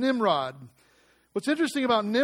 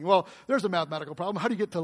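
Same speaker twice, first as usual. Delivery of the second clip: amused; much faster than usual. Real, not acted.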